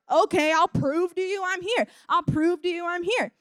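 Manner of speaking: lightly voiced indulgent God; obliging God voice. God's voice answering ridiculous requests.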